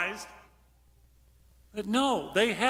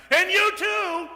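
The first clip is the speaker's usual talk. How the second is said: much higher, a mild mock yell; retold yell back; 12 semitones higher, 4 dB louder, slower than usual. Preacher retelling a congregant's reply, high mock yell. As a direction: toss it back like a voice from the pews. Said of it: "somebody yelled back".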